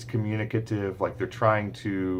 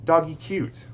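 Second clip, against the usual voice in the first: put-on high, bright toddler two-word phrase; child's telegraphic speech; toddler talk; 9 semitones higher, 4 dB louder, slower than usual. Shown as a demonstration. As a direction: say it like a little child.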